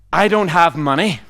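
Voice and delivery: lightly imitated North American-Irish movie accent; Liam Neeson. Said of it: "weird kind of North American Irish accent".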